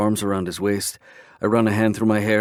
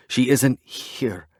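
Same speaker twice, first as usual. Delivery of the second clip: softer, slow and broken; 4 semitones higher, much slower than usual. Acted. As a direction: say it quietly, defeated. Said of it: "I say softer, broken".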